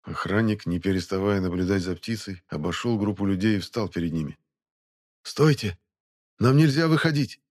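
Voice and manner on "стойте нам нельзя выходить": high, loud desperate plea; desperate shout. Acted. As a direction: cry out in desperation. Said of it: "отчаявшись, произнёс он".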